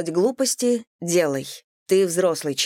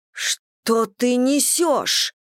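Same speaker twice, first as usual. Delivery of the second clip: higher, very slow indignant retort; raised voice; 6 semitones higher, much slower than usual. A narrator's reading. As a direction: push back, voice lifted high and slow. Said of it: "Анна повысила голос".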